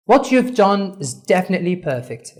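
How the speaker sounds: "What you've done is definitely perfect" said slowly, PER stressed; slow it down, lean on PER; slow stressed sentence. Shown as a demonstration. Teacher demo reply, slow and stressed. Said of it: "قدرت تسمع ان في الاول مقطع لفظي".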